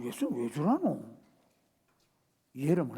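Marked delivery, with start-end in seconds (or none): 0.0-1.0 inner thought. Retold or imitated. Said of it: "속으로".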